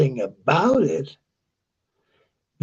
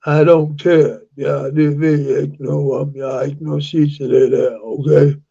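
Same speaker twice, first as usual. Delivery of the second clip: Jutland dialect. Shown as a demonstration. Showing listeners how Jutland people speak, Jutland dialect. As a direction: demonstrate Jutland speech on an even pitch. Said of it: "in Jutland, they speak like this".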